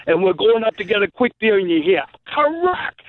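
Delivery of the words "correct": high-pitched called-out warning; retold shout from afar. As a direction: yell it like someone across the park. Someone shouting on the ballfield.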